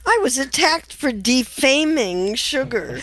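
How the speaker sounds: high, laughing mock dismay; giggly, sing-out mock remorse; mock-apologetic amusement. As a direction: tease with exaggerated high-pitched concern, barely holding back laughter. Mocks the sugar complaint, amused.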